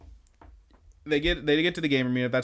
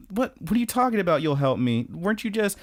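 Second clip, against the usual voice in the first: put-on higher, fast confused girlfriend; 6 semitones higher than usual. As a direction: rattle off the disbelief up high. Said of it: "she's like".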